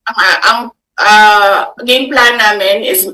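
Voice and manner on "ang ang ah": real tears catching in her throat; choked up, struggling to start; voice breaking. Real, not acted. Vice President to reporters about the standoff, voice breaking. Crying while describing the standoff.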